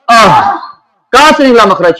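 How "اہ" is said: "اہ" ending in a breathed h from low in the throat; from lower throat. Shown as a demonstration. Teacher testing where ہا comes from, "اہ" from the lower throat. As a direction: let a short "اہ" end on deep breath. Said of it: "نیچے والے حصے سے".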